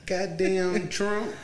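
loud, high mock Trump voice; hammed-up Trump bluster, shouting; Trump impression. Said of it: "Terrible impression".

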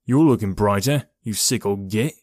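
exclaiming. Acted. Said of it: "he exclaimed".

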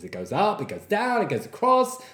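"up", "down" and "across" swooping in pitch; mock lyrical lilt. Shown as a demonstration. Podcaster mimicking women's voices, exaggerated sing-song lilt. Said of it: "more lyricism in their voices".

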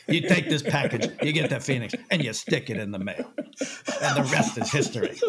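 laughing mock producer orders; imitating Jay's Robert Evans. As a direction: give the instructions like a smug old mogul, half laughing. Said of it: "That's exactly how he says it".

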